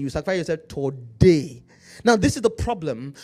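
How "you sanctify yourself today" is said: today said with a African accent, tor-DAY; sanctify yourself today in a African accent. Shown as a demonstration. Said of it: "Say it with an African accent".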